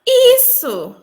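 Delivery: an excited, emphatic yes; eager yes. Real, not acted. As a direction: jump in excitedly to confirm. Agreeing eagerly with interviewer.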